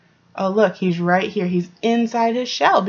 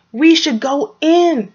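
loud, high, slow alarmed shout; 7 semitones higher, 6 dB louder, slower than usual. A narrator's reading. Franklin urging friends inside, loud slow alarmed shout. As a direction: yell it over the wind. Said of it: "shouted Franklin".

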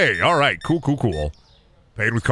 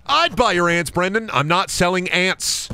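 high silly voice; 9 semitones higher than usual. Acted. Acted high squeaky voices.

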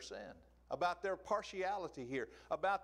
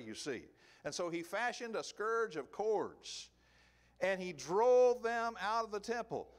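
rising preaching fervor; 4 semitones higher, 4 dB louder than usual. Real, not acted. Preacher builds to climax.

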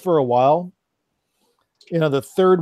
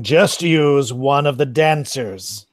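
slow, sinister whisper-like menace; drawn-out villain voice from the dark; evil low voice; much slower than usual. Acted. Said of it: "an evil, low voice just going".

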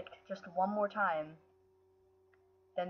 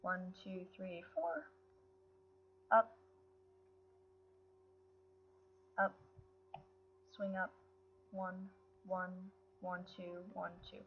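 hushed, focused counting under the breath; quiet concentrated counting; 8 dB quieter than usual. Real, not acted. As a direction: count softly to yourself. Counts to self while playing.

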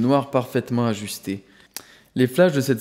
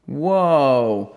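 mock sneer. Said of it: "ricana l'homme rondouillé".

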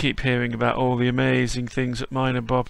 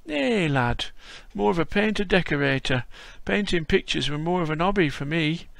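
put-on higher, louder old Yorkshire man's voice; old Yorkshire grandad greeting a visitor; frail old Yorkshireman; 3 semitones higher, 3 dB louder than usual. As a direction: play a creaky old Yorkshire lad-caller. Voicing old Yorkshire Bob.

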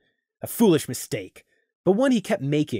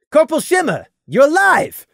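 higher, louder, stunned cry; shocked exclamation; 12 semitones higher, 7 dB louder than usual. Acted. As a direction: blurt it out in disbelief. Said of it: "Gloom exclaimed in utter shock".

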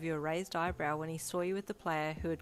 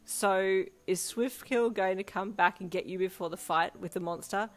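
gleeful; 2 semitones higher, 7 dB louder than usual. A narrator's reading. Gleeful teasing after cackling.

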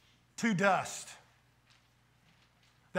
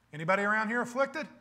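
quick mock-innocent question, a little sarcastic; mildly sarcastic; 3 semitones higher, faster than usual. Preacher voicing James questioning his suffering readers, mildly sarcastic. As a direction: ask it with light sarcasm. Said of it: "He almost says this sarcastically".

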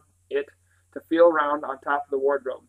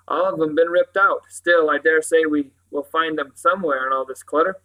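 louder sergeant's voice, musing aloud; rustic police sergeant, musing; 5 dB louder than usual. Acted. Sergeant surveys the ransacked house, musing. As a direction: play a sergeant sizing up the mess.

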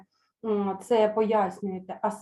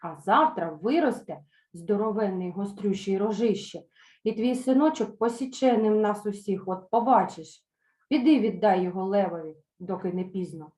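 put-on indignant young mares. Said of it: "обурилися молоді кобили".

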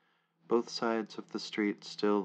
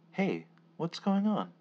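calling out; 9 semitones higher, 6 dB louder than usual. Acted. Narrator calls out to stranger.

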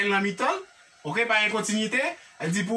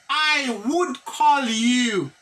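slow model reading; much slower than usual. Shown as a demonstration. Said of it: "teacher models English slowly".

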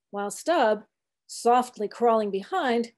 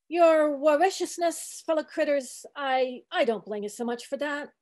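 put-on old cook preaching gently; 3 semitones higher than usual. Old cook coaxing the sharks in a gentler sermon.

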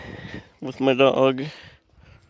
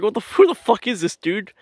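higher-pitched, baffled retort; incredulous questioning; 6 semitones higher than usual. Retold or imitated. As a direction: ask it in disbelief. Retold bewildered reaction to stranger.

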